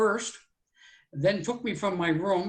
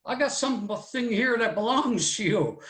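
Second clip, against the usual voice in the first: retold holler up high, calling through the house; 5 semitones higher than usual. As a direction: call out the name like a cab driver at the door. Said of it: "he hollers to my mother".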